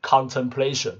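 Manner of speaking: contemplation with PLA stressed; stress on third syllable. Shown as a demonstration. Teacher showing how stress shifts in the noun, third-syllable stress in contemplation. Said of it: "重音变是摆第三个音节".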